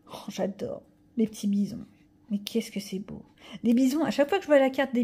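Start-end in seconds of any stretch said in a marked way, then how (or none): 0.1-3.2 soft unvoiced whisper of wonder; whispered awe. Real, not acted. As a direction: breathe it out in awe. Admiring cards, whispered. (murmure émerveillé)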